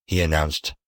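usual speaking voice

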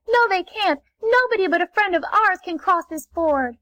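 high, light little-ray voice. Acted. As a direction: pipe up as a small ray refusing. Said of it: "said a little ray".

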